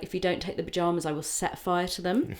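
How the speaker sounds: put-on hint at a Midwest accent, lifting at the end; soft, brisk Midwest mum voice. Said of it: "like, Midwest accent".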